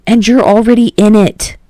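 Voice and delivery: insistent. Acted. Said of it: "Kirishima insisted".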